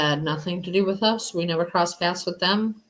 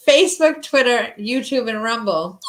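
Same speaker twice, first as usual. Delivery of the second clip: high, breaking up while tickled; being tickled; 4 semitones higher, 5 dB louder than usual. Real, not acted. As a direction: push through giggles, squirming. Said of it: "my daughter's trying to tickle me".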